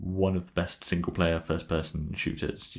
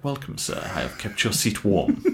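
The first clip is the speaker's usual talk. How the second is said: lightly posh-sounding butler, higher start; 3 semitones higher than usual. Retold or imitated. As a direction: play a polite game butler, lightly. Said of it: "a butler voice".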